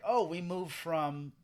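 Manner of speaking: slow, unfinished answer, imitated; slow down and leave the answer hanging; trailing off. Vision asked where they moved from, trailing off. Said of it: "he kinda trails off".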